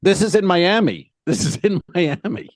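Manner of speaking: high-pitched, incredulous retold protest. Traveler retelling a run-in with port security, protesting.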